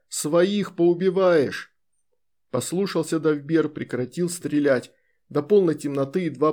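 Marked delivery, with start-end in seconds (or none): 0.1-1.8 shouting orders over battle. Acted. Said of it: "кричал командир полка".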